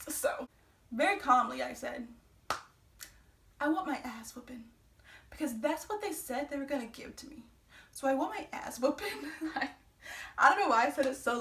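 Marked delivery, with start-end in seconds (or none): 3.6-9.1 flat, calm, deadpan; monotone. Retold or imitated. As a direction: say it with no emotion. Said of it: "so monotoned".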